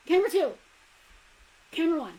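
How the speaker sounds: high and loud, showing off; gleeful camera switch; excited. Real, not acted. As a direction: announce it like a proud reveal.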